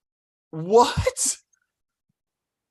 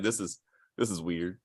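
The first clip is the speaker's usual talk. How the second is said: bewildered quote; 11 semitones lower, 8 dB quieter, faster than usual. Retold or imitated. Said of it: "I'm like".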